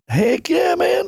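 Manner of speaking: soaring excited heck yeah, half-acted; excited whoop. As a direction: re-enact the thrill of getting the call. Retelling getting the callback.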